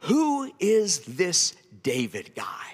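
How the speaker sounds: very slow, sing-song, dripping with sarcasm. Retelling how Nabal answers the messenger: imitating Nabal's great sarcasm. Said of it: "with great sarcasm".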